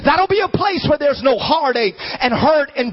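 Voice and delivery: rolling, rising sermon cadence; fervent preaching. Real, not acted. Preacher promising a painless heaven, fervent preaching. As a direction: build it like a hopeful preacher.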